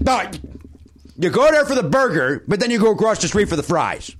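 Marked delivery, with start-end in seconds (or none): 1.2-4.1 lightly voiced teen know-it-all; a hint of a smug high school kid; high school kid impression. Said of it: "Here's an impression of a kid that I went to grade school with".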